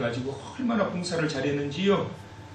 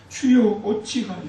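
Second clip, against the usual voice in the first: 주여 cried out loud and high; 울부짖듯 외치는 탄식; 5 semitones higher, 5 dB louder, slower than usual. Acted. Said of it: "이와 같은 탄식이". (사망자를 보며 하나님께 외치는 탄식)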